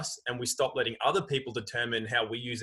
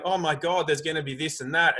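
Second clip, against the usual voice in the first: mock panic; 4 semitones higher than usual. Man imitating people panicking at TV news, hammed-up fright. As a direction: gasp it out like a scared viewer. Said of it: "people start going".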